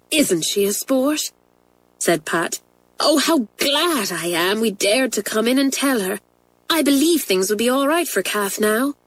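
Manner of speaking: a schoolgirl glowing with relief; happy schoolgirl. Acted. Pat to Isabel after the head's kindness, delighted girl voice.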